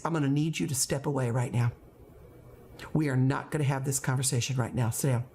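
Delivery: level, controlled teacher command; firm, unraised voice. Shown as a demonstration. Teacher ordering a student to step away, firm and level. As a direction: stay firm without raising the voice. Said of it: "Do you hear my voice go up?".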